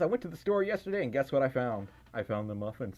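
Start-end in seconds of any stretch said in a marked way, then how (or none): none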